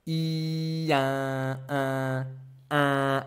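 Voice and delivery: plain I, then an opened, nasal un; teacher building un from I. Shown as a demonstration. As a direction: go from I to un by opening the mouth. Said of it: "I, and then you open your mouth".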